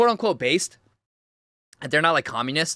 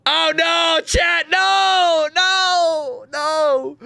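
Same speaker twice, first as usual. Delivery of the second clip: alarmed no; 10 semitones higher, 3 dB louder, much slower than usual. Real, not acted. Streamer protests about the translation.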